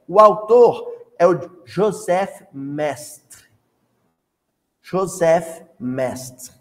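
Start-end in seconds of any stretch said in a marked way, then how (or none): 1.7-6.5 "Joseph Mestre" said slowly with careful French sounds, final e dropped to "Mest"; "Joseph" with a soft French j, "Mestre" clipped to "Mest", slow and deliberate; overdone foreign pronunciation. Shown as a demonstration. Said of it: "A pronúncia caprichada é porque eu estou estudando francês".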